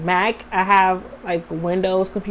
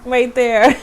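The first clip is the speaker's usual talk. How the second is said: gushing excitement; 3 semitones higher than usual. Retold or imitated. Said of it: "I was like".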